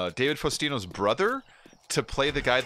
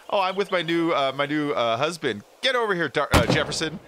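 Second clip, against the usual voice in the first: Marcy's boast; 4 semitones higher, 4 dB louder than usual. Retold or imitated. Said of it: "And Marcy's like".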